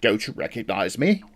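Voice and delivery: lightly indignant British imitation; indignant British accent. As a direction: imitate a mildly affronted Brit. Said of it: "the dude gets all indignant".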